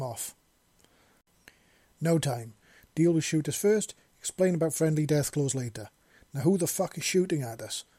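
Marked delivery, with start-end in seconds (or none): 2.0-7.8 louder, higher urgent yell; yelled orders. Acted. Seven yells orders at the man under fire, loud. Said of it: "Seven yelled".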